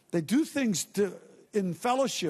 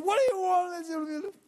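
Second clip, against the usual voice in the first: high, slow snappish mock yell; rude yell; 11 semitones higher, slower than usual. Secretary snapping rudely at a customer on the phone. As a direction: snap rudely at the caller. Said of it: "she yells at a customer".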